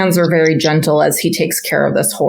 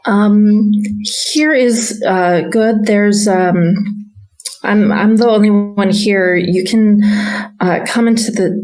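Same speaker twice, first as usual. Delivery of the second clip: put-on nervous stable boy; 3 semitones higher than usual. Stable boy hesitantly agreeing to the stranger, stammering. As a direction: agree reluctantly, unsure.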